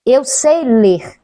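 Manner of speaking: each word drawn out carefully; slow, deliberate. Shown as a demonstration. Teacher who swallows words proves she can read, slow and deliberate. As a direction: take your time on every word. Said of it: "pauso, não, calma".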